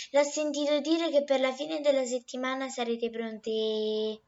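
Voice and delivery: a lightly voiced, loud and talkative gossiping lady; a hint of a proud, chatty neighbour; chatty eggplant lady. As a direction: chat her up like the know-it-all of the garden. Madama Melanzana speaks to Novella.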